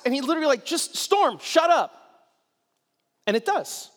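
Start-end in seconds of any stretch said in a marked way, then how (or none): 0.7-1.9 offhand command. Retold or imitated. Jesus commanding the storm.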